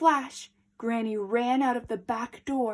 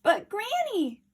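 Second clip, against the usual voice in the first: frightened; 11 semitones higher than usual. A narrator's reading. Frightened child.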